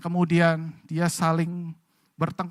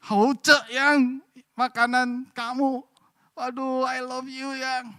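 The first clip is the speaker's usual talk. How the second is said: sincere praise; 7 semitones higher, slower than usual. Retold or imitated. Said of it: "memuji istrinya dengan tulus".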